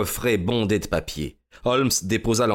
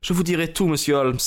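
high-pitched lady giving in; understated exclamation of surrender; exclaiming; 8 semitones higher, faster than usual. A narrator's reading. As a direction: cry it out mildly, pitch up at the start. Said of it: "s'écria-t-elle".

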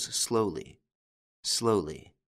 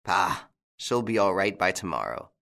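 calmly. Acted.

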